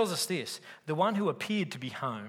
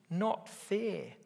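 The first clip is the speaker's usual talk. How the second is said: put-on "Not fair" whined higher, like a sulky child; like a kid; 5 semitones higher than usual. Preacher voicing older brother as kid, higher childish whine. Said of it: "like a kid".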